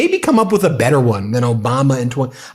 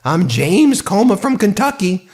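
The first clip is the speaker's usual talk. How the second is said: James Comer impression; 3 semitones higher than usual. Host admits his impression slipped, lightly voiced Kentucky Comer. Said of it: "my James Comer impression used to be better".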